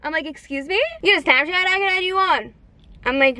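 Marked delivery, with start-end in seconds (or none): 0.2-2.5 mumbled guy imitation. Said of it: "thought he was speaking Spanish".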